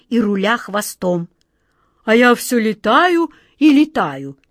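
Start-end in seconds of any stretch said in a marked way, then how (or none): 2.0-4.4 lightly voiced cat, higher and louder, mild sadness; a mournful floating cat; sad cat. A narrator's reading. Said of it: "печально сообщил кот Васька". (грустный кот Васька)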